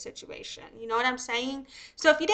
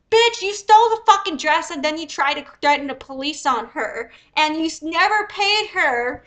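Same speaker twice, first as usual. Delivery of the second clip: louder, heated scolding; angry rant; 3 semitones higher, 6 dB louder than usual. Real, not acted. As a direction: tear into her, voice raised.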